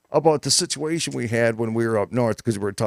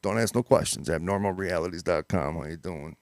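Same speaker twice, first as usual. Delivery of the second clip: low, easy New York Italian pitch man; New York Italian accent; 6 semitones lower than usual. Retold or imitated. Cohost praising his New York Italian pitch for the website. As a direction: sell the site like a New York Italian wiseguy. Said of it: "You do that well".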